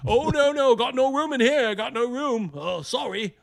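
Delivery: high, loud mock backpedal; hammed-up gamer refusing; mock fruity UK gamer. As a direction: squeal out the excuse. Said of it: "Little fruity little guys".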